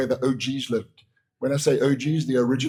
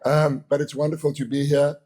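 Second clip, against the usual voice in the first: lost voice, rough and strained; hoarse voice. Real, not acted. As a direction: speak through a worn-out hoarse throat. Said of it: "As you can hear, I've lost my voice".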